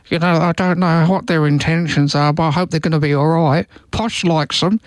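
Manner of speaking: lightly voiced mild Beckham; a hint of Beckham's easygoing tone; David Beckham impression. Host imagines Beckham addressing the nation, light imitation. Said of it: "he'd get up there and go".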